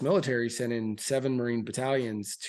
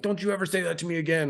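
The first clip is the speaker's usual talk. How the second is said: retold angry threat; 5 semitones higher, faster than usual. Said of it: "like, all mad".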